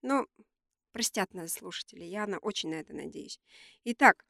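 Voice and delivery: nasal voice from a cold; talking with a blocked nose; stuffy nose. Real, not acted. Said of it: "я сегодня немного гнусавлю ввиду своей простуды".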